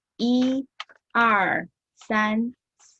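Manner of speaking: 一 二 三 四 spoken in Mandarin tones; Chinese numbers. Shown as a demonstration. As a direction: count 一, 二, 三, 四 carefully. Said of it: "we would say".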